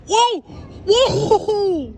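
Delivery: high, loud whoa with a laugh; excited shout. Real, not acted. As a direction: shout out in thrilled amazement. Double lightning strike.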